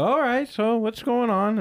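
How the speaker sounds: high-pitched put-on parent voice; imitated expectant parents. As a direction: quote them way up high. Voicing parents waiting for his news.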